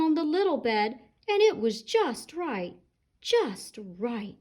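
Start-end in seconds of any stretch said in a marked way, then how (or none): 3.2-4.4 sleepy yawn through the words. Acted. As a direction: say it mid-yawn, drowsy. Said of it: "yawned Goldilocks".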